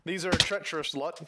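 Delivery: lightly voiced pirate warning; sea-dog on guard, lightly acted; pirate captain. Pirate warning crewmate about treacherous villagers, lightly voiced pirate.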